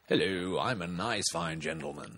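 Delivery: lightly put-on English gentleman; English accent. Shown as a demonstration. Showing a mate his accent skills, English gentleman accent. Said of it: "I can do English".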